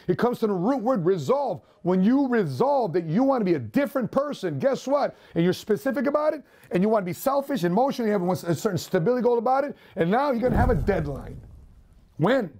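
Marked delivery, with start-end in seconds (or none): none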